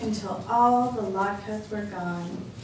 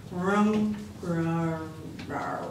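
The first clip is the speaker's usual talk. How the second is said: muttered growls; 4 semitones lower, much slower than usual. Acted. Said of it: "muttered and growled".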